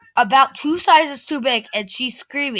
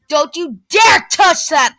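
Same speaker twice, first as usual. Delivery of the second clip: mild mock shout; 4 semitones higher, 4 dB louder than usual. A narrator's reading. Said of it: "the girl shouts".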